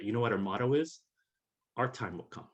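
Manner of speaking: a hint of an Irish brogue, quoting an old militant; light Irish brogue. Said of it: "in his beautiful, you know, brogue".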